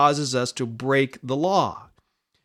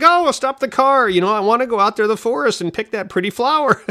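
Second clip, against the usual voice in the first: lightly voiced naive heroine; 7 semitones higher, faster than usual. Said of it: "And she's like".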